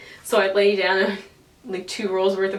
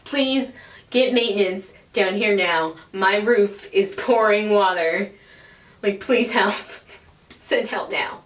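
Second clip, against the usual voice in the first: retold panicked plea; 2 semitones higher, 4 dB louder than usual. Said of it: "screaming and freaking out".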